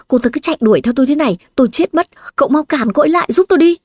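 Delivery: panicked plea while being chased; flustered panic. Acted. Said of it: "Anh ta ấp úng". (hoảng hốt, nói nhanh và cao dần)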